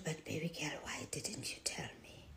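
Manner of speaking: hushed, tender appeal; soft gentle question. Retold or imitated. Mother asking her daughter why she didn't tell, softly. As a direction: ask it softly, almost under the breath.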